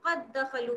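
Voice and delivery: "कद दखलू" with the dal joined, heard only once; merged recitation. Shown as a demonstration. Teacher shows students the merged idgham reading. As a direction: run "कद" straight into "दखलू" as one word. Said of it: "दाल हमें एक ही बार सुनाई देगा".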